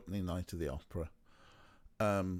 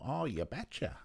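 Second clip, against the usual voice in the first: put-on light Midwest accent on "oh, you betcha"; a hint of Midwest in "oh, you betcha"; 3 semitones higher, 4 dB quieter than usual. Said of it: "a Midwest accent".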